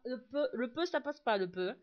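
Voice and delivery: numb lips can't say peu; numb from the dentist. Real, not acted. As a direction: mumble peu with a numb mouth. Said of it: "je peux pas dire peu".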